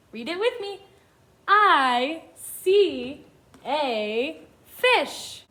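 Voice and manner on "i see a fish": very slow, separated words; each word stretched with a gap after; word-by-word reading. Shown as a demonstration. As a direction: read it out slowly for beginners to follow. Children read along.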